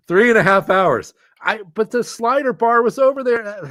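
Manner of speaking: words squeezed out through real laughter; laughing hard. Real, not acted. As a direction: laugh through the line at yourself. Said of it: "I'm laughing so hard".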